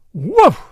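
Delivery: loud punchy woof; woof sound effect. A narrator's reading. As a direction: belt out the impact sound. Sound of a slap.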